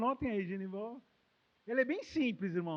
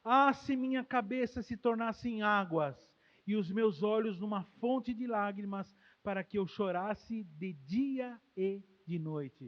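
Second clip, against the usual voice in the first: slow solemn recitation; reading the prayer. Acted. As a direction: read the verse slowly, reverently. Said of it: "Olha a oração de Jeremias". (leitura solene e lenta da oração)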